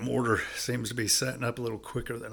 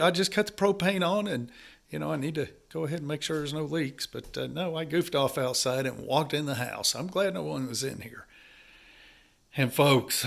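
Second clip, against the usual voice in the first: normal talking voice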